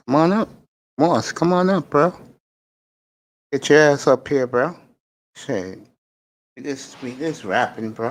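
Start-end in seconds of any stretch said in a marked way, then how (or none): 0.1-4.8 raised, high calling out. Real, not acted. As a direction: call him up onto the stage. Calling guest onto panel.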